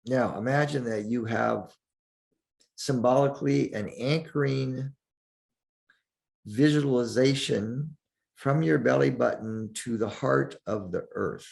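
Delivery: calm meditation guide with long pauses; unhurried, leave space between the phrases; guided meditation. Acted. Teacher guides listeners through breathing and centering, guided meditation.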